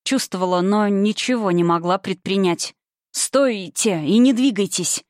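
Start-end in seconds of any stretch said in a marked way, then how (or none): 3.2-5.0 slow, rasped order; hoarse reply. Acted. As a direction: rasp the command out slowly. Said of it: "хрипло ответил мне врач".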